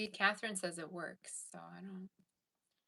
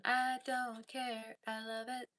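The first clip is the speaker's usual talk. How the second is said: slow, higher, breezy no-cares voice; carefree vibe; 5 semitones higher, much slower than usual. Retold or imitated. Voicing the carefree vibe of a Cancer reading. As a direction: toss it off like nothing can bother you. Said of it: "That's the vibe of your read".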